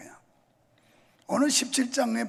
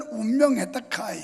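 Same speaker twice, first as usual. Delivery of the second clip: Gyeongsang dialect; 3 dB louder than usual. Retold or imitated. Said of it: "경상도 사람들은".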